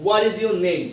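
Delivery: "What is your name?" falling from "What" to "name"; down voice question. Shown as a demonstration. Teacher modelling a WH question, falling on "name". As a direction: let "name" come down. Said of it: "up voice না down voice?".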